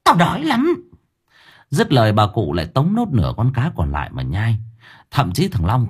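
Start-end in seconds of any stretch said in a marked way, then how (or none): 0.0-0.7 hissed then shrieked ghoul voice; growling hag. Acted. Grandmother growling at her family, ravenous. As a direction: growl it, starving monster. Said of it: "gằn giọng".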